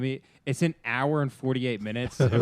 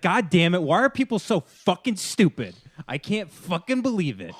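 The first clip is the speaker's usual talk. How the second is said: mock angry rant; 6 semitones higher than usual. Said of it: "he's like".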